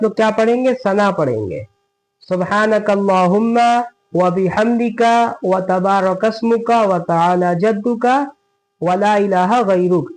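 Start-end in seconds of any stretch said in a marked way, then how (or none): 2.2-10.1 prayer recitation. Shown as a demonstration. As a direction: recite it carefully, word by word. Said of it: "ये हो गई सना।".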